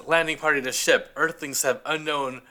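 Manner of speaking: fading radio report from a spaceship; sci-fi communicator. Retold or imitated. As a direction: report in, then fade out. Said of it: "the first cat says".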